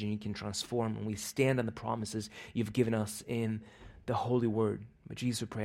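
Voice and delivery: hushed, earnest prayer that falls away at the ends of lines. Acted. Pastor praying over the congregation before the sermon, earnest and hushed.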